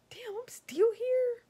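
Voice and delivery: groggy, slow whisper. Retold or imitated. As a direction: whisper it like just waking up, confused. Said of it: "I woke up, I'm like".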